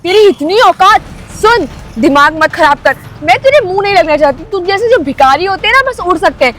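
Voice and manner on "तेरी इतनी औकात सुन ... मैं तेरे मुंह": angry outburst. Acted. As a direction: snap back in disbelief. Angry quarrel over the bike.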